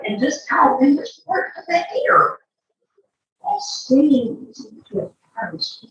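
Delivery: lively sing-song storybook read; playful circus-barker storytelling; reading to a child. A narrator's reading. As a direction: read the rhymes with showman flair. Re-reads rhymes to the child.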